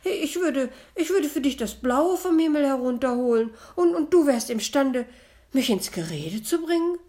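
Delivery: high, loud fake sweetness with a laugh; sugar-coat it, sweetly high; syrupy high-pitched false sweetness; honey-sweet voice. A narrator's reading. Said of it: "mit honigsüßer Stimme".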